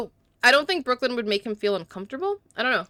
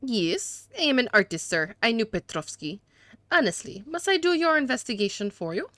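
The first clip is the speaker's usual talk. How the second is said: hammed-up French accent for a haughty suspect; 3 semitones higher than usual. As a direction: play a disdainful gentleman with a badly faked French accent. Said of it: "these atrocious accents".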